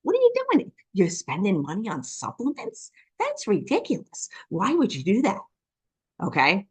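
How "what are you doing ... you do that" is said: high, incredulous family voices mocking the pink drink; mock family disbelief. Family reacting to her supplements, mocking disbelief. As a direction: squeal it like the shocked relatives. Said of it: "They're like".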